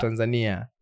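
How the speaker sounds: "Tanzania" with the "ni" syllable emphasized; stress on the I. Shown as a demonstration. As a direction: demonstrate "Tanzania", leaning on the I. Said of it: "you have the emphasis on the I".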